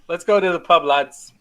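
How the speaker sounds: rally the group for the pub. Acted. Player to the party heading pubward, rallying.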